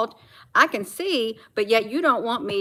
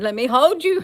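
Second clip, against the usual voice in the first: higher, louder imitation of coaxing; teasing raised-pitch coo; retold pet coaxing; 4 semitones higher, 5 dB louder than usual. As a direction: replay the pet baby talk. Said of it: "I said".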